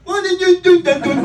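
high, loud blocked-nose whine; broken nose voice. Retold or imitated. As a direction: imitate a squashed nasal voice. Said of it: "Stephen Fry does a stupid broken nose voice".

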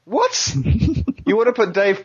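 high-pitched shocked squeak. Real, not acted. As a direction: blurt it out in disbelief. Shocked at David Perry pick.

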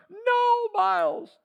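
father crying to his fainted son; panicked crying plea. Retold or imitated. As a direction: beg the child to come back. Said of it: "and he's crying".

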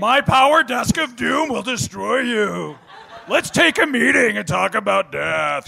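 slow, hammy threatening boss; menacing villain voice. Pretend. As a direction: play a campy office villain, slowly. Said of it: "Hi, I'm Sigourney Weaver".

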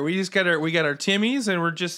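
folksy put-on Canadian; mock-Canadian small talk; Canadian accent. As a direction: chat like a hammed-up Canadian. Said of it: "maybe they're all Canadian".

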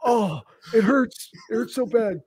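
high, whiny mock sobbing; hammed-up crying in pain.

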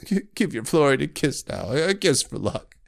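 put-on stammering, weepy drunk fool. Weepy drunk fool begging the girl for a kiss. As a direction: slur out a needy plea for a kiss. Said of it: "He was growing weepy".

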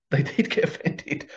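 laughing. Real, not acted. Laughing at own story.

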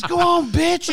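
high mock snarl of a kid; kid's insult. Man mimicking the kid telling off the lady, high sneer. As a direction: sneer it like a fed-up boy. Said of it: "he says".

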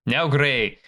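slow, measured elf mentor; a hint of a patient elf master; lightly voiced elf. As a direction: gently instruct a pup, taking your time. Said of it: "the elf turns and says".

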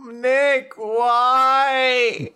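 drawn-out plaintive "why"; long, half-serious cry of protest; playful lament. Pretend. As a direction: wail it in mock protest. Mock lament at co-host.

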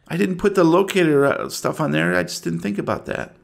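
lightly voiced anxious mother, halting; a mother recounting a missing daughter, mildly fretful; a hint of anxious small-town woman; worried mother. Game master voices worried mother.

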